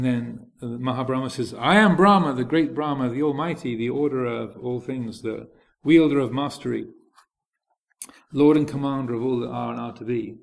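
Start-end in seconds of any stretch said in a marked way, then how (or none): 1.5-10.4 lightly pompous deity, loud opening; grandiose Brahma. Retold or imitated. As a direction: proclaim your own magnificence like a mildly hammed-up god. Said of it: "In this very grandiose".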